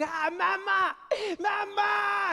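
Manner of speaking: put-on high, whiny child crying mama; a little kid bawling for help; child wailing for mom. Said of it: "He'd be like".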